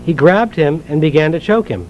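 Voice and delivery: measured, earnest Bible reading aloud; scripture reading. Acted. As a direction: read the parable to the congregation, steady and clear. Reads the parable from Matthew.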